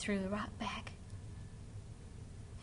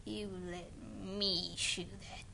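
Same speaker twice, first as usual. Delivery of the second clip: frightened whisper; 5 semitones lower, 7 dB quieter, slower than usual. Acted. Witch's fearful last words.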